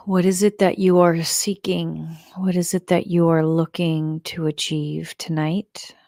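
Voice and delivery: measured meditation guide with long pauses; guided meditation. Shown as a demonstration. Leader settles the group to let go and create space, guided meditation. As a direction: guide them gently, leaving room between phrases.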